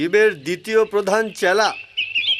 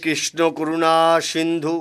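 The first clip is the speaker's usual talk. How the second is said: slow, lower chanted invocation; devout prayer; 5 semitones lower, slower than usual. Acted. Gopal alone, calling on Krishna in slow devotion. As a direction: intone it like a temple prayer.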